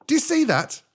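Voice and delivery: high, loud stern djinn; djinn warning. Acted. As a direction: warn the camel sternly.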